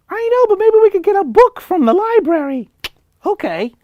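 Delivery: very high, loud squeaky puppet; cheery bright puppet reply. Acted. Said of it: "other one talks".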